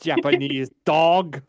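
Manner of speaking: slow, put-on cartoon voice; cartoon character voice. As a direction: draw it out in character. South Park quote impression.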